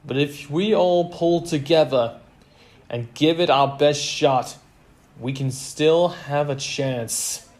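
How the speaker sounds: rally them with force; rallying the team. A narrator's reading. Coach urging players to pull together, loud rallying.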